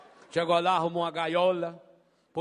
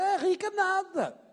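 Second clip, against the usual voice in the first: scoffing; 10 semitones higher, slower than usual. Retold or imitated. Maid scoffs at her friend.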